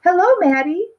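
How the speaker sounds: high, bright hello from a jolly dad; cheery father greeting. A narrator's reading. Father greeting Maddie at home, cheerful high call. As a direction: call hello across the room.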